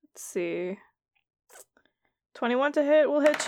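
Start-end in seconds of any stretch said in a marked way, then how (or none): 0.0-0.8 unvoiced, softer muttered check; whispered aside. Real, not acted. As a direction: whisper it to yourself. GM checks dice quietly.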